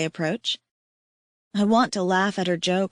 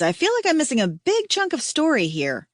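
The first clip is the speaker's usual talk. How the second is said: baffled Liz; 8 semitones higher than usual. Acted. Liz confused, voiced figure.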